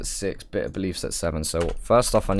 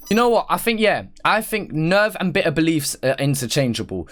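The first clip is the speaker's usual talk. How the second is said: sudden decision; 7 semitones higher than usual. Real, not acted. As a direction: snap to a decision, excited. Reactor suddenly deciding the ranking.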